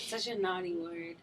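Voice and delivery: hushed, disgusted whisper. Real, not acted. Whispering to her cohost in mock disgust. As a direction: breathe it out with distaste.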